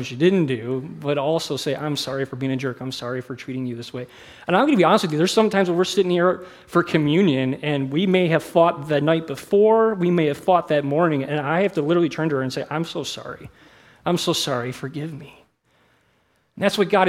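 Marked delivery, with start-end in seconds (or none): 1.8-4.1 soft, low apology; retold apology. Retold apology to his wife. 12.7-15.3 soft, hushed plea for forgiveness; acted apology. Acts out apology to wife.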